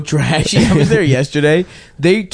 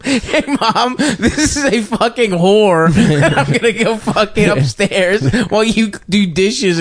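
higher-pitched, laughing mock announcement; mock announcement to mom; 6 semitones higher, slower than usual. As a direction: announce it brightly to Mom, cracking up. Imagined son announcing to mom.

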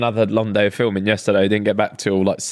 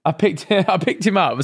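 laughing; 6 semitones higher than usual. Real, not acted. Laughing while retelling.

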